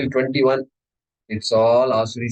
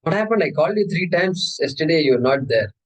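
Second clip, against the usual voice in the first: higher, miffed caller asking why you vanished; annoyed friend; 3 semitones higher than usual. Pretend. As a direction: play the friend who couldn't reach you. Acted phone complaint scene.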